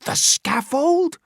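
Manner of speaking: high, slow, mocking question; scornful disbelief. Chillingworth's sneering question.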